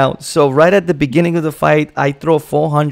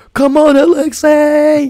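acted, very high screaming cheer; 12 semitones higher, 4 dB louder than usual. Retelling screaming for a fighter during the fight: imitating own screaming. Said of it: "I was here screaming".

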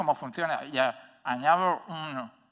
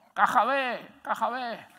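high-pitched, shouted, jeering taunt; 9 semitones higher, 3 dB louder than usual. Speaker retells a Spanish tourist in Oporto yelling at him in the street, retelling a shouted insult. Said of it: "me empieza a gritar".

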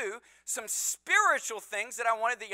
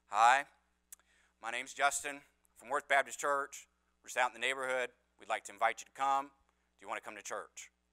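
very low, flat, passionless monotone drone; 10 semitones lower, 5 dB quieter than usual. Retelling a church member knocking on doors, imitating Justin's flat monotone. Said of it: "he sounded just like this. ... in that very monotone, passionless voice".

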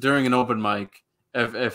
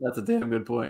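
voice breaking and cracking mid-line; 3 dB quieter than usual. Agreeing with another speaker's point about open mics: voice cracking. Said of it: "as my voice cracks".

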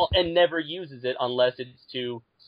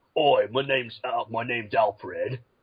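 gruff, rough-edged tough-guy voice, slow. Describing a tough action-hero version of Alfred: rough and gruff voice. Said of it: "rough and gruff".

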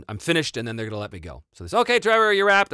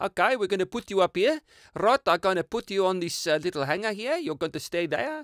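put-on poorly done, botched Johannesburg South African accent; 7 semitones higher, 4 dB quieter than usual. Retelling how you caught yourself talking to the laundry, in a bad Joburg accent. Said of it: "talking to the laundry in a Joburg accent".

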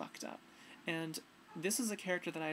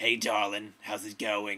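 very deep, loud, booming put-on voice; 8 semitones lower, 10 dB louder than usual. Retelling walking around one night in a nurse dress, put-on really deep voice. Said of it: "she has a really deep voice like this".

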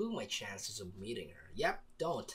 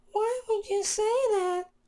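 high, loud put-on girl voice. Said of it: "Is my girl voice good?".

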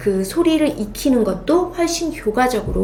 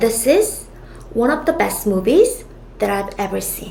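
phrased in three chunks split by pauses; 2 semitones lower than usual. Teaching English chunked reading, the sentence in three chunks. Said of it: "이렇게 세 덩이로 끊어 읽어요".

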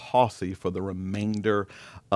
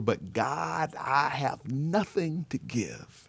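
put-on very slow, loud, high, drawn-out pleading cry; 6 semitones higher than usual. Retelling a teenager pushing back at the altar: imitating a cry out. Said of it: "literally cries out the altar".

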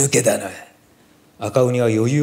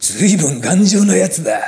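gleeful, delighted, relishing, raised and pitched-up; 8 semitones higher, 5 dB louder than usual. Red ogre readies to meet Momotaro's sword charge; said happily. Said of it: "赤鬼は嬉しそうに言いながら".

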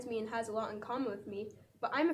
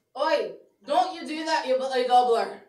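very loud put-on Scottish accent; 2 semitones higher, 13 dB louder than usual. Given the prompt Scottish insult, the speaker answers in a Scottish accent. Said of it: "Scottish insult".

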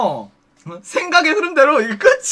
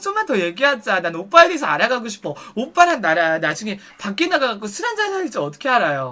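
ordinary talk, nothing marked

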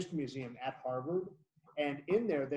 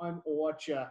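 put-on child voice with Boston accent. A parent quoting their son, imitating Archer's Boston accent. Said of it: "pronounces all of his A's and his O's kind of that way".

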